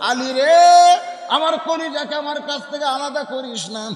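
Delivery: acted tearful wail, run together; orphan-like tearful plea. Prophet calling Ali back for the child, mock-tearful chanted plea. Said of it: "এতিমের মতন দাঁড়িয়ে কাঁদতেছে আর বলতেছে".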